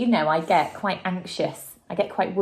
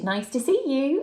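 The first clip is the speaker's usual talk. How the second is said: hooted; 6 semitones higher than usual. A narrator's reading. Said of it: "and they hooted".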